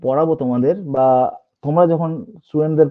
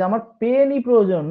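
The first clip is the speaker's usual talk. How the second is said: "পেনই" pushed out higher than usual; stress on পেনই; 5 semitones higher than usual. Shown as a demonstration. Teacher insisting only a pen will do, stress on "পেনই". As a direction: lean hard on "পেনই". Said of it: "পেনটাকে জোর দিয়ে বলছি".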